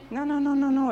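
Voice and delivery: high, rising string of no's; preacher shooting down the whiners; emphatic no. Acted. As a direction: cut the excuses off sharply. Emphatic refusal to crybabies.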